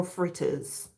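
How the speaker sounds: "fritters" softly in a Jamaican accent. Shown as a demonstration. Host repeating the accented version for viewers, Jamaican accent. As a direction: say "fritters" the Caribbean way. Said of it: "if you wanna say it in an accent".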